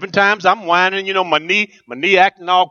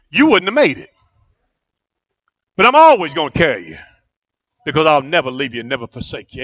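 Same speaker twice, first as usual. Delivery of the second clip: tender voice of the Lord; 4 semitones lower than usual. Retold or imitated. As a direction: comfort him like a father. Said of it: "He said".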